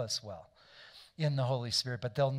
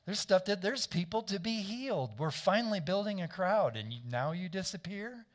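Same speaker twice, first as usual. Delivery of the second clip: higher-pitched incredulous complaint; mock-indignant disciples; 4 semitones higher than usual. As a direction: imitate followers protesting to their leader, pitched up. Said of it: "that's what they're saying to him".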